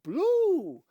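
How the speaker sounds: high, loud excited announcement; eager blurt. Acted. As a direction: jump in before anyone else can. Dika butts in eagerly.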